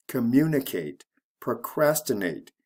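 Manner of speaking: com-MU-nicate, pro-CRAS-tinate; second-syllable stress. Shown as a demonstration. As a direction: stress the third syllable from the end in communicate and procrastinate. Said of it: "is actually the second syllable".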